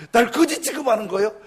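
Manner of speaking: preacher laughing as he replays the yell; laughing mock shout. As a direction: repeat the outburst, cracking up. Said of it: "막 소리를 지르는 거예요".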